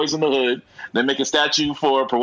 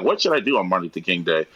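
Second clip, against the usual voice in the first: low musing; 6 semitones lower than usual. Retold or imitated. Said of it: "I was thinking, like".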